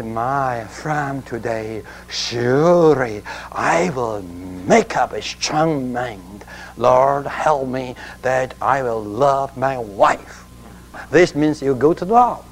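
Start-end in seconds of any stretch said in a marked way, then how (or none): 0.0-10.4 softer, lower, slow, imitating a repentant husband praying; a hushed, earnest-sounding resolve, gently mocked; mock humble prayer.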